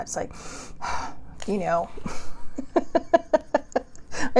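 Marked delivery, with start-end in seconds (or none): 0.4-1.4 short voiceless huff of breath; quick breathy sigh, as a habit shown; demonstrated huff. Shown as a demonstration. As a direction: huff out air softly. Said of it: "I huff a lot".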